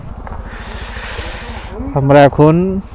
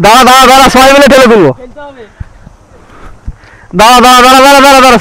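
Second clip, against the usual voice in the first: pushing something heavy; 9 semitones higher, faster than usual. Real, not acted. Lifting bike over boulder.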